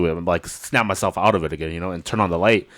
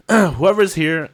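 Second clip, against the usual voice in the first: higher, louder, half-laughing threat; mock tough threat; 9 semitones higher, 4 dB louder than usual. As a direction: psych yourself up to fight the intruder. Retold threat while armed.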